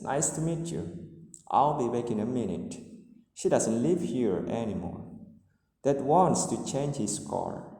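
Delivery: statements with the pitch falling to the end; falling intonation. Shown as a demonstration. Teacher demonstrating statements for English learners, falling intonation. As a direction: let each statement's tune drop on its last words. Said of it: "the intonation is falling".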